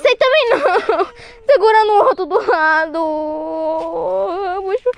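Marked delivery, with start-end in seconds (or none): 3.0-4.9 broken slow sob; crying. Real, not acted. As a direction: trail off into tears. Crying stuck in swamp.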